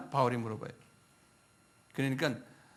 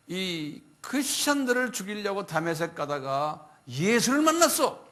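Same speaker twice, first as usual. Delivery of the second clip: louder preaching voice as Paul; Paul addressing crowd; 4 semitones higher, 5 dB louder than usual. Retold or imitated. Paul defending himself before the crowd, loud preaching. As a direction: declaim to the crowd. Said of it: "히브리 말로 말하는".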